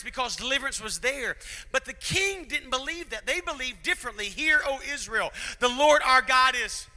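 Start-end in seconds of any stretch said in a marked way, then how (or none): 4.3-6.9 loud, high proclamation of the creed; proclaiming loudly. Acted. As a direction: ring it out like a herald. Preacher proclaims scripture creed.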